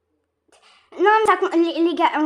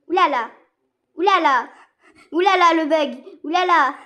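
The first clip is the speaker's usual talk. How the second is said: mock alarm; 8 dB louder than usual. Game bugs, repeated exclamations.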